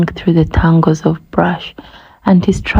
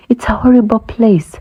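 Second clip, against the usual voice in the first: higher pitched groaning complaint; 5 semitones higher than usual. Acted. Gnu groaning to the elephant, mock misery. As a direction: moan it out like a gloomy gnu. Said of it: "said the gnu with a groan".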